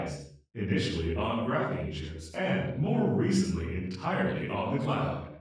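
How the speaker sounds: brisk, bright presentation read; scripted intro read. Pretend. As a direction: recite the canned intro like a product pitch. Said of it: "Do you want the demo or the live version?".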